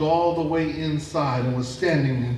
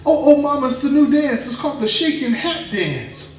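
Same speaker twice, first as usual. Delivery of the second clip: loud, much higher panicky cover story; flustered high excuse; 10 semitones higher, 6 dB louder than usual. Acted.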